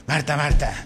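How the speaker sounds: low, firm "Marta, Marta" in a changed voice; one way to say it. Shown as a demonstration. Pastor trying out how Jesus called Marta, low and firm. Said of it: "qué pronunciación, así como".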